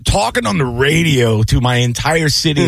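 high-pitched defiant boast; riled retort. Real, not acted. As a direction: fire back at the prank caller. Riled retort to prank caller.

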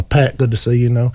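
lightly voiced polite gentleman. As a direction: greet them smoothly like a gentleman. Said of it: "like a gentleman".

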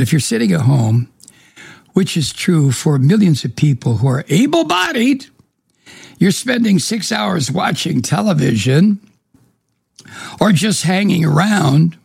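hoarse, worn-out radio voice; raspy voice. Real, not acted. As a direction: talk through a raspy throat. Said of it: "putting up with my raspy voice".

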